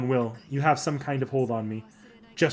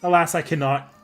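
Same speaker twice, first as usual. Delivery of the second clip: hammed-up fake sobbing, pitched up; mock crying; 3 semitones higher than usual. Saber fakes tears at the distracted Master, hammy wail. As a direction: wail it like a sulking diva.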